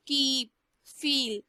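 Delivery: कीप, फील with the ee sound drawn out long; slow teacher demo of the long ee in कीप, फील. Shown as a demonstration. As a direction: stretch the ee in कीप and फील slowly. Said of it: "sound जो है वो थोड़ी लंबी भी हो जाती है".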